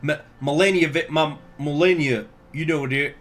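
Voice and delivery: lightly imitated politician, fumbling names; a hint of a bumbling presidential impression; Bush voice. Shown as a demonstration. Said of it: "doing a Bush voice".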